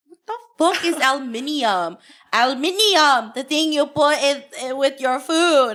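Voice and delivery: mock British accent; lightly exaggerated British speaker. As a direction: put on a jokey British accent. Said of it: "like when British people say aluminium".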